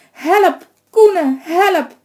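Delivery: high desperate shout for help; calling for help. A narrator's reading. Woman at the door screaming to her son for help. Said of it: "Ze reup uit alle macht".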